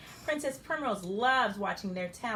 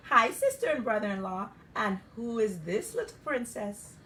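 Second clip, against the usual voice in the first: a hint of a Jamaican uncle; light Jamaican lilt, friendly; Jamaican accent; 4 dB louder than usual. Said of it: "But you sound kinda funny".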